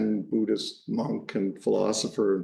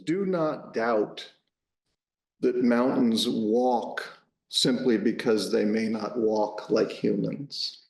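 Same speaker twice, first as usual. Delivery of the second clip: slow, deliberate quote reading; quote recitation; slower than usual. Acted. Speaker offering Dogen's saying to the audience as a head note, slow recitation. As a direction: recite it slowly, with pauses between phrases. Reads out a quotation.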